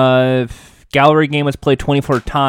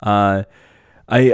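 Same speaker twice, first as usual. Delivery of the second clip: voice hoarse from a cold; 3 semitones lower than usual. Real, not acted. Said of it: "They're gonna sound like this".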